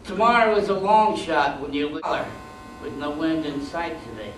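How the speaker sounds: measured poetry reading, emphatic openings falling away; poem recitation. Acted. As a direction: declaim each line, then let it settle. Recites his second poem.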